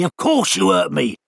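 mock-outraged bird scolding; the hurt owl rounding on the culprit; bitter owl. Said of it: "said the owl bitterly".

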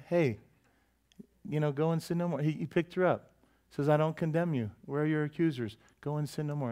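soft, gentle forgiveness; gentle Jesus. Retold or imitated. Jesus to woman caught in adultery, softly forgiving. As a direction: speak it softly, without blame. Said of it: "He went".

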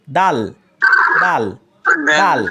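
দাল struck firm but light and thin. Shown as a demonstration. Teacher demonstrating the firm, thin দাল. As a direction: hit দাল firmly, keep it light. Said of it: "শক্ত করে পড়তে হবে এবং পাতলা আওয়াজে".

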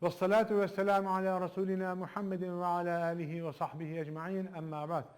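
measured, devout recitation of the opening; formal opening invocation. Acted. Teacher opening the lesson with a devout invocation. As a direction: recite the invocation calmly before class.

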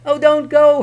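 high, loud desperate plea; pleading. Acted. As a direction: beg him to stay. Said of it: "Herschel pleaded".

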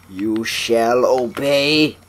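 slow, grand command. Acted. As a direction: decree it like a tyrant. Commanding the hand.

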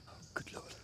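breathless gasp; panting from the climb; out of breath. Real, not acted. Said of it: "little bit out of breath".

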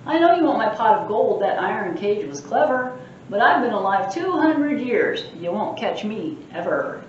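a lightly voiced mischievous leprechaun boasting; cheeky leprechaun. Librarian reading the leprechaun's boasts aloud, cheeky. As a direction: tease the reader like a sprite.

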